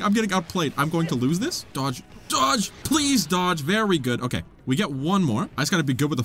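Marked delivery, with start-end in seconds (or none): 1.7-3.6 urgent command. Real, not acted. Urging own character to dodge.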